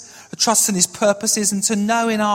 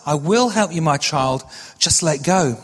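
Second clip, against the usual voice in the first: a hint of God's voice, steady and measured; lightly voiced God; 4 semitones lower than usual. God answering the man hanging from the cliff, lightly voiced divine reply. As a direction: answer as God, dropping lower on the closing words. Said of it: "Voice came back a third time".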